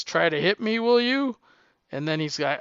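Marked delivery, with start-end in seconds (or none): 0.0-1.4 mock threat climbing high at the end; taunting caveman. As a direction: challenge him, pitch shooting up on the closing question. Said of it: "the caveman guy says".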